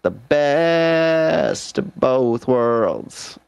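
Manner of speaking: mock ad slogan. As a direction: stretch it out like a cheesy tagline. Improvised slogan for whiskey oranges.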